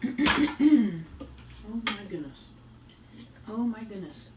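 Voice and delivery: slow drawn-out oh my goodness; surprised. Real, not acted. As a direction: stretch it out in mild shock. Reacting to mixture.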